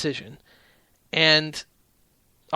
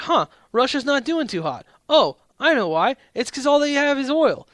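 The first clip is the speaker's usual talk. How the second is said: higher-pitched, louder sarcastic "aha" voice; mock realization; 10 semitones higher, 5 dB louder than usual. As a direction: play the obvious discovery with mock surprise.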